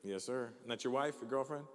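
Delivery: ordinary talk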